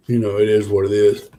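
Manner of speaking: talking through a yawn; sleepy, mid-yawn. Real, not acted. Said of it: "excuse me for yawning".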